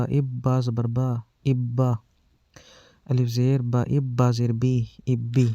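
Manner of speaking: slow, spelled-out syllable drill; firm, paced spelling recital for children; drill reading. Shown as a demonstration. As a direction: read each sound firmly with pauses, like a teacher drilling kids. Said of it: "سختی سے اور رک رک کر پڑھ رہے ہیں".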